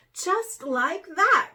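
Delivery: a slow upset cry; mild cry. A narrator's reading. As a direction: draw it out in dismay. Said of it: "cried Ferret".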